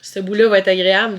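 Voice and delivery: sick, a bit under the weather; feverish. Real, not acted. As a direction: talk like you have a fever. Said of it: "je suis un peu malade".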